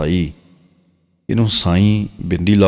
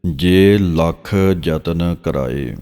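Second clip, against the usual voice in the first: drawn-out, measured reading of sacred verse; slow scripture recitation; much slower than usual. Shown as a demonstration. Teacher reciting Gurbani verse for students, slow and measured. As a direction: recite each phrase slowly and reverently.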